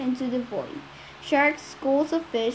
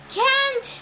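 yelled; 12 semitones higher than usual. A narrator's reading. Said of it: "the sailor yelled".

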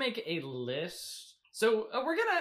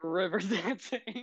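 laughing; slower than usual. Real, not acted. Repeating guest's odd wish.

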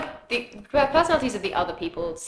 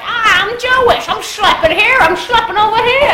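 put-on loud, high caricature of a New York Jewish accent; hammed-up Jewish New Yorker accent sliding into Italian; mock New York Jewish accent; 12 semitones higher, 11 dB louder than usual. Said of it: "you kept doing this thing where you're like".

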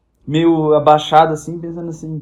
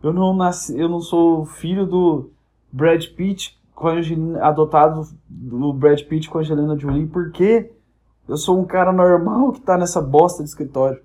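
inner scream. Acted. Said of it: "dentro da sua alma tá gritando assim".

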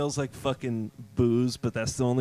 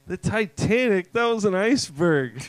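mild indignation; 5 semitones higher than usual. Retold or imitated. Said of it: "he was like".

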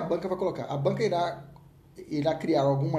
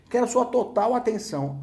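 "Quero sua total atenção" louder, stress on "sua"; firm call for attention; 4 semitones higher, 5 dB louder than usual. Shown as a demonstration. Teacher demands students' full attention, firm and loud.

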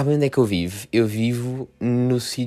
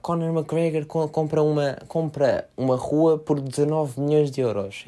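lendo a manchete; 5 semitones higher, slower than usual. Retold or imitated.

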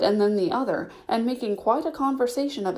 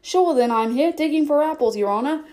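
lightly voiced Irish-style servant, a bit higher; new servant voice; 6 semitones higher, 4 dB louder than usual. Pat answering the rabbit, lightly voiced servant. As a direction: answer the master cheerily. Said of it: "a voice she had never heard before".

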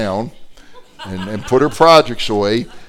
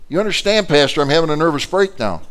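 upset; 5 semitones higher than usual. Retold or imitated. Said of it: "She's really beside herself".

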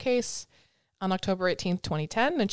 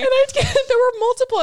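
higher and louder, laughing through it; 10 dB louder than usual. Real, not acted. Host explaining the shopping trip, still laughing. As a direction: keep talking while still cracking up.

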